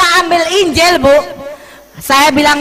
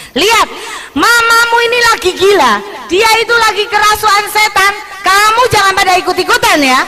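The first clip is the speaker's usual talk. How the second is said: angry father; 7 semitones higher, faster than usual. Retold or imitated. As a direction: warn the girls their mother is possessed. Husband warning daughters about mother.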